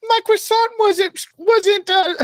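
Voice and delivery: high, drawn-out mock French accent; slow, squeaky-high fake French, groping for the line; attempted French accent. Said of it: "French accent".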